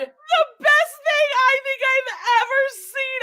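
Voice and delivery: high, slow, laugh-choked; laughing through words. Real, not acted. Host laughing at husband's tree, words choked. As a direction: barely get it out for laughing.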